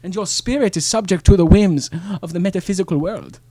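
lightly put-on German accent; solemn German mystic. Improv German character Ehrlich.

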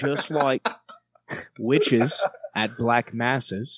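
slow, deliberate Australian accent. Shown as a demonstration. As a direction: stretch the lyric out in Australian. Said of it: "We'll do it in Australian".

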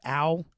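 a put-on "ow" as if pinched; mock ow. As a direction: yelp as if pinching yourself in disbelief. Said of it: "it's 'cause I'm pinching myself".

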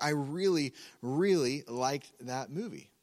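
"really" said twice, each one leaned on; emphatic repetition. Shown as a demonstration. Preacher gives an everyday movie example, stressing the doubled "really". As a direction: punch the first "really", then slow down on "really liked". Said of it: "use repetition to emphasize certain words".

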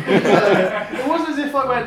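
laughing through the words. Retold or imitated. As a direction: giggle while saying it. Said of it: "take these sound levels down".

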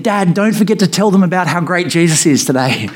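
mild imitation of a yelling three-year-old; retold child's yell. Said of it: "she yelled out the front window".

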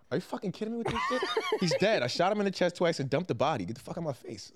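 fast, laughing mock snap; Teddy's retort. Host playing Teddy answering the sister, fast and half laughing. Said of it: "He goes".

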